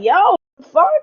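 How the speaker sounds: high, loud indignant outburst; annoyed surprise. Retold or imitated. Retelling friends how the wind threw sand in his eyes. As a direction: react to sand whipping into your eyes.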